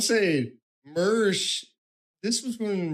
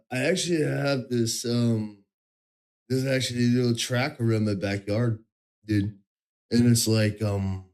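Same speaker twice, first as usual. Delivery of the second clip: lightly lowered, laid-back bro voice, a hint of Mersh; Mersh impression; 4 semitones lower than usual. Streamer mocking Mersh's diet brag, in a lowered lazy bro voice. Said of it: "I'll do the Mersh impression".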